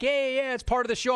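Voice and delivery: high, quick voice of unworried onlookers; dismissive onlookers. Retold or imitated. Retold onlookers dismissing a fire.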